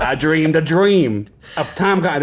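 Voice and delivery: slow, badly faked New Jersey accent. Host tries a Les Mis bit, bad New Jersey accent. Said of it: "that's not a great accent".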